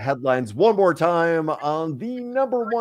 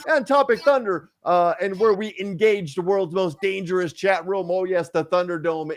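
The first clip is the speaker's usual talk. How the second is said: hype announcer; 5 semitones higher than usual. Acted. Hyped show intro announcing segment.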